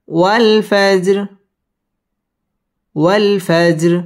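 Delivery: slow, drawn-out chanted recitation of the word; Quran recitation. Shown as a demonstration. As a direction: stretch والفجر slowly like tilawat, rounding the lips on و. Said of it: "ওয়াও ঠোঁট গোল করে উচ্চারণ করতে হবে".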